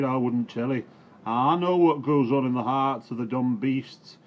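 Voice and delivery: put-on old cowman defying his master; stubborn old countryman. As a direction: answer back with wounded pride. Old cowman defiantly answering master.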